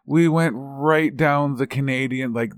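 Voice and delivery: gleeful boast about going all the way; excited. Real, not acted. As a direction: burst out with it, proud of the prank. Proudly admits full Canadian stereotype.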